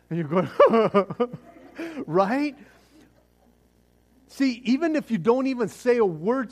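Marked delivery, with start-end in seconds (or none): 0.5-2.0 loud, high mock laughing noise; mock nervous laugh. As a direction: act out a burst of nervous laughter. Imitates the reaction to another shot.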